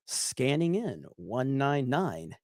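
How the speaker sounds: whispered aside; soft whisper. Real, not acted. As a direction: breathe it out unvoiced. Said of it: "reading super chats".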